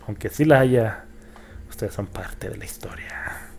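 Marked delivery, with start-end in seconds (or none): 1.7-3.5 whisper. Real, not acted. Confides to viewers softly.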